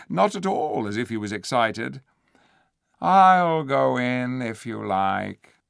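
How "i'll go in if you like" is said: cool and clear. Acted. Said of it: "in a cool, clear voice".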